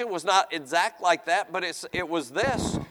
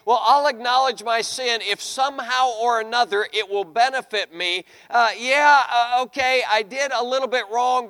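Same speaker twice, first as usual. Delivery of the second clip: grudging mock confession, pitched higher; Saul; 4 semitones higher, 5 dB louder than usual. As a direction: make hammed-up excuses, louder and higher. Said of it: "You only see him saying".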